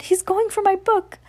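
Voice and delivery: a witch losing her treasure; panicked witch. Acted. Winifred crying out for her spell book, high panicked witch.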